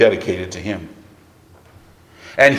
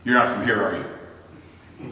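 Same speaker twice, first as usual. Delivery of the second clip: knowing question; 7 dB quieter, slower than usual. Retold or imitated. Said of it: "Their first words".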